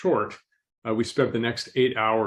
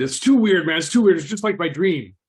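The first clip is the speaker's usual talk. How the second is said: high and loud, rattled; freaked out; 7 semitones higher, 6 dB louder than usual. Retold or imitated. Gunman spooked his victim won't die, loud rattled cry. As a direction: play the shooter spooked out of his wits. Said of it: "he freaked out".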